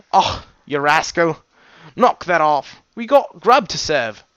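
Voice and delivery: lightly voiced character telling off a pal; playful scolding. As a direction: call a rascal back to work. Playful scolding quote in the story.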